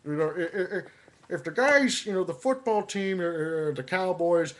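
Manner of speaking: lightly voiced Madden; John Madden. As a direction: state the obvious like a TV football analyst. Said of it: "to make statements like".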